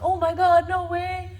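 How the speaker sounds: put-on high, loud, starstruck kid voice; impressed schoolmates. Daughter mimics schoolmates gushing loudly over her music. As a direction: gush like an amazed classmate. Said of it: "They'd be like".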